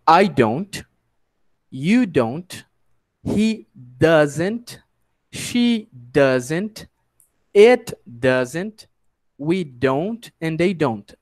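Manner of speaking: measured model phrases with spaces; repeat-after-me drill. Shown as a demonstration. Teacher lets students repeat the contracted forms, measured drill. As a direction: say each contraction clearly for learners to copy. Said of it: "agora vocês podem repetir".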